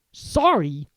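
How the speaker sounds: loud incredulous bark. Acted. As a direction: bark it back in disbelief. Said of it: "barked Hagrid".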